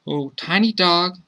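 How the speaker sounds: put-on high child's voice hailing a dog; light, high-pitched call. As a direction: call out high like a little kid. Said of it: "the child called out".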